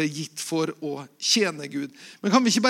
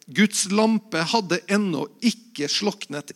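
measured, louder Bible reading to the congregation; scripture reading; 4 dB louder than usual. Acted. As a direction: read the passage out with solemn weight. Pastor reads scripture aloud.

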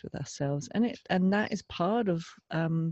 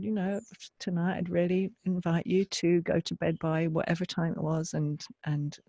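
gentle loving limit. Retold or imitated. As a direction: coax yourself to bed tenderly. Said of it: "a little loving limit".

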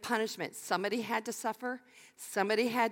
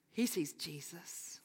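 hushed, slow whisper; awed whisper; 3 semitones lower, 9 dB quieter, slower than usual. Acted. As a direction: breathe it as a secret. Sermon emphasis by whisper.

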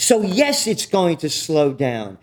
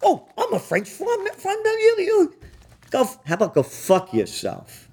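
mock French minister; 10 semitones higher than usual. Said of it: "Who is this little piece".

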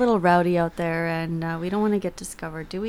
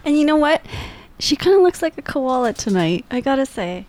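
loud burst after hushed talk; whisper yelling; 5 semitones higher, 5 dB louder than usual. Real, not acted. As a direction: blurt it out, louder.

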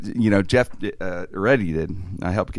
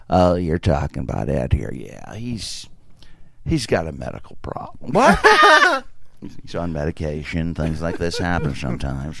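fake manager voice; 5 semitones lower than usual. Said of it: "could actually do characters and voices".

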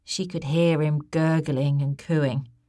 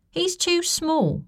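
glum; 13 semitones higher, slower than usual. A narrator's reading. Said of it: "looking glum".

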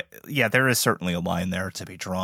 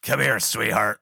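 lightly creepy lure; creepy haunt voice. Pretend. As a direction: coax like a creepy actor. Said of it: "Act like you just".

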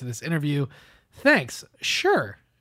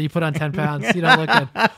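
laughing mock scolding; 4 dB louder than usual. Mock telling Spicer off.

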